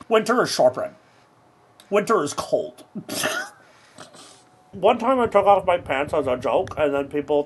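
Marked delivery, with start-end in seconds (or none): 0.1-0.9 mock Ned Stark line. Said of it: "Imagine me saying Ned Stark lines". 1.9-2.8 mock Ned Stark line. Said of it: "Imagine me saying Ned Stark lines".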